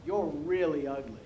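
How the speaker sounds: parrot calling out. Acted. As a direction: call out like a heckling parrot. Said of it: "the parrot calls out to her".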